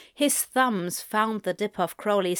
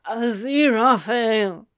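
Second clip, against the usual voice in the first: crying out; 2 semitones higher, 5 dB louder than usual. Acted. Crowley crying out.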